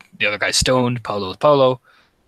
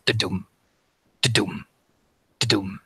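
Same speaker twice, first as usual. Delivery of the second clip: heartbeat sound; 2 semitones lower, 3 dB quieter than usual. A narrator's reading. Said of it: "you just hear a da-dum".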